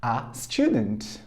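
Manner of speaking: very slow, drawn-out repetition; slow drill. Shown as a demonstration. Teacher drills the sentence very slowly for students. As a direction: stretch it out for learners to repeat. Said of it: "repeat after me".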